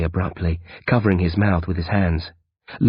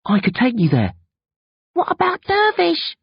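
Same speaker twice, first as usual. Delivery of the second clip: higher, lightly voiced teen boy; boy's voice. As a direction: voice the worried young friend. Bill E voiced.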